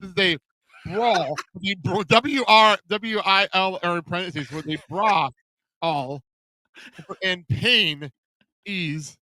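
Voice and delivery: slow, piece-by-piece reading; reading as written. Shown as a demonstration. Host reads the website's match title as written, slowly and haltingly. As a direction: sound out the odd wording bit by bit. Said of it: "read this as it was written out".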